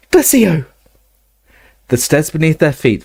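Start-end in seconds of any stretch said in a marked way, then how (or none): 0.1-0.6 high shouted incantation; shouted spell. Acted. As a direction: fire the spell out loud. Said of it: "Hermione shouted".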